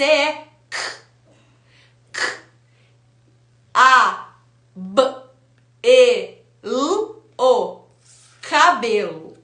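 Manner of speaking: sounding out K, A, B, E, L, O one by one; letter sounds. Shown as a demonstration. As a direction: say the sounds of the letters in "cabelo", not their names. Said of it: "você ensinou de forma explícita". (soletrando os sons das letras)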